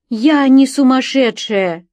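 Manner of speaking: high, loud, slow protest; desperate cry. A narrator's reading. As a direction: cry it out to the policeman. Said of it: "закричала я". (отчаянный крик)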